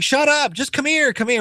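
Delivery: high, pushy hush then beckon; bossy drunk woman. Retold or imitated. Drunk woman shushes the men and pulls them along, high and bossy.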